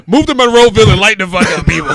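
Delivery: laughing through the words; giggling while talking loudly. Real, not acted. Laughing while retelling host's line.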